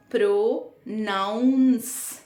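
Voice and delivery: "प्रोनाउंस" slowly split, pro-nouns; noun in the middle. Shown as a demonstration. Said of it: "जिसमें नाउन word बीच में है". ("प्रोनाउंस" में नाउन को खींचकर साफ़ बोलें)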